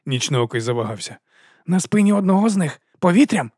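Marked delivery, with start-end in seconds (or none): 1.7-3.5 hesitant wolf. A narrator's reading.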